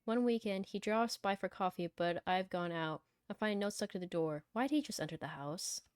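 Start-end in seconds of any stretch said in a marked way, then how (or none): 0.0-4.4 measured first-person story reading; story narration. Acted. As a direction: read the story out evenly. Reads the game's story aloud.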